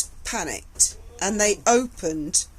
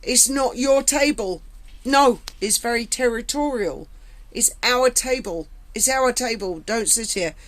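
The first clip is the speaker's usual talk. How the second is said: hostile inmates' warning; 3 semitones higher than usual. Retold or imitated. Inmates warning the new prisoner off their table, mock hostile. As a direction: snap it out like she owns the table. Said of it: "and I was attacked".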